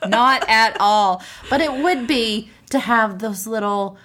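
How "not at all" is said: slow laughing sarcastic repeat; drawn-out sarcastic. Acted. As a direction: stretch it out, teasing. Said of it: "but I'm not bitter".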